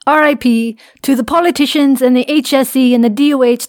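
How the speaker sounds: put-on Irish accent, pitched slightly up. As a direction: read it out in an Irish brogue. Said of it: "I should do this in an Irish accent".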